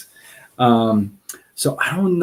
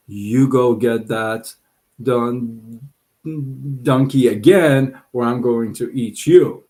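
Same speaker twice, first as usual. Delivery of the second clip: angry lion threat; 4 dB louder than usual. Acted.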